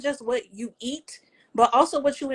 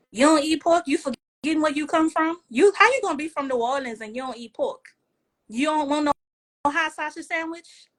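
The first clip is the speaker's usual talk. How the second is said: mock teasing relative; 6 semitones higher than usual. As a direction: needle her like a relative who can't believe it. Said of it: "my people always joke me".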